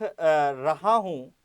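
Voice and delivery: 1 drawn-out dictation. Shown as a demonstration.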